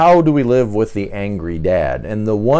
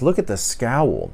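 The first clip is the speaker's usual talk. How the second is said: ordinary talk, nothing marked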